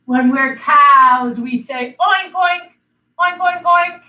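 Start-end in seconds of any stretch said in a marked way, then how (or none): 2.0-4.0 light oinking, a bit higher; playful pig oinks. Pretend. Teacher joking with kids, light mock oinks. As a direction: oink like a pig, teasing. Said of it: "Oh, we don't, no?".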